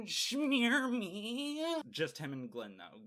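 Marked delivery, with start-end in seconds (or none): 0.1-1.6 high, loud put-on squeal; mock-gleeful high shriek; playful squeal. Playful voice for smearing guts.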